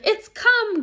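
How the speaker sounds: high, loud frightened gasp; gasped in fear. Acted. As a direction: gasp it out in terror. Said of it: "gasped Piggy".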